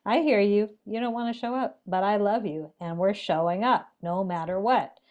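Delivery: firm but loving insistence; tender yet strong, voicing fierce compassion. Shown as a demonstration. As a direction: say it with loving resolve, brooking no refusal. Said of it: "there's something strong and loving".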